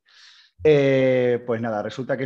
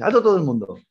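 louder, raised call to everyone; mock shout; 5 semitones higher, 4 dB louder than usual. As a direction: shout the order to stop everyone. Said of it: "Eso grita Luis el Montero".

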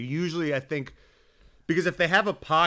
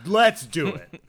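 mock delight; 8 dB louder, much slower than usual. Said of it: "they're like".

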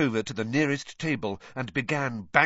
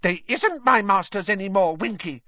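high, loud, defiant elf voice; 10 semitones higher, 6 dB louder than usual. A narrator's reading. Dobby answers Winky's scolding, defiant. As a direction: push back boldly. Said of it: "said Dobby defiantly".

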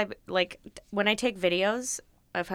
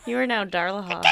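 proclaiming shout. Pretend. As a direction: announce it like a title. Crowning friend jokingly.

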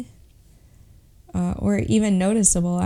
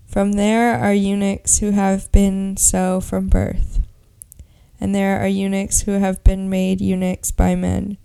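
Bible reading; 3 dB louder than usual. Acted. Reads Matthew nineteen aloud.

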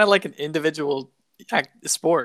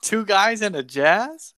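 incredulous; 6 semitones higher, slower than usual. Real, not acted. Repeating odd title in disbelief.

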